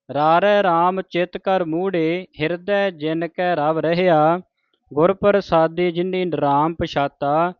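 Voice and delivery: slow, deliberate reading of sacred verse; measured scripture recitation. Shown as a demonstration. Teacher reads Gurbani for congregation to learn, measured recitation. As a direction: recite each word distinctly, resting between phrases.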